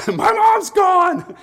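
very high, drawn-out loud wail; hammed-up baby shrieking in panic; panicked baby. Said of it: "the baby's like".

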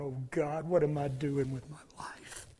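desperate hushed cry to God; anguished whisper. Acted. Sinner crying out to God, whispered despair. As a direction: breathe it out in shame.

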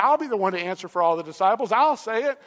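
rushed, mildly anxious volunteering, rising at the end; anxious eagerness. Acted. Peter answering for all the disciples, mock-anxious. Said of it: "like, anxiously".

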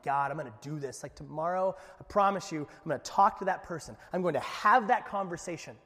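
mildly hyped mock-earnest prayer, rising; pumped up. Preacher re-enacting his bedtime promise to God, pumped up. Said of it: "I'm all pumped up".

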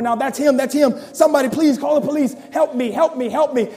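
rising, urgent pleading cries; a milder echo of the terrified scream; frantic screaming. Acted. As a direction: plead in a panic. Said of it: "she begins to scream even more".

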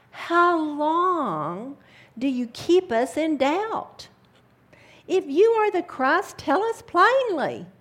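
loud, high demanding challenge; demanding crowd. Acted. The Jews surrounding Jesus, demanding a loud answer. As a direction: hurl the challenge at him.

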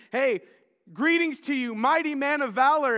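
grand announcing angel; booming angel greeting. Retold or imitated. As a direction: hail him like a heavenly messenger. Angel greets Gideon loudly.

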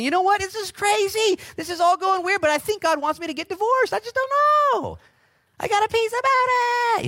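very high, loud put-on voice; hammed-up high voice claiming peace about divorce; mock deluded churchgoer. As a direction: ham up a dreamy self-justifying believer. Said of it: "I've talked to people".

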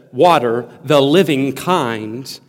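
"living" set apart after a pause; "living" given deliberate weight after "Water"; stress on living. Shown as a demonstration. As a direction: lean on the word "living". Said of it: "the emphasis is on the living".

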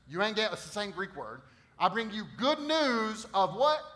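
loud, high-pitched preaching from the pulpit; preaching at full force. Acted. Pastor preaching to his church, loud and high. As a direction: preach it out to the whole room.

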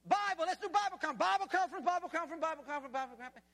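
high, loud hype that speeds up and drops away; mock enthusiasm running down fast; wound up, then fading. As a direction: chant it like a freshly wound toy. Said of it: "begins to lose its momentum".

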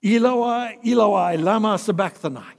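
the forsaken cry from the cross, loud and high; loud anguished cry. Acted. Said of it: "cried out in a loud voice".

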